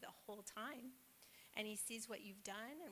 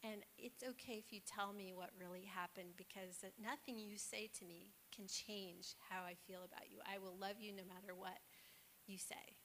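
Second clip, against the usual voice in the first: mother gently coaxing a confession from her son; tender reassurance. Retold or imitated. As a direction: reassure a little boy that he is loved. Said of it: "she just stopped and she said".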